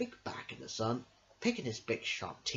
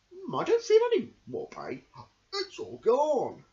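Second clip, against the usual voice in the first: relieved crocodile; 10 semitones higher, 6 dB louder than usual. Acted. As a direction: savour that the pain is gone. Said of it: "The crocodile sat up and said".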